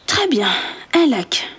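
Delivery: thinking aloud. Acted. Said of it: "pensa Georges".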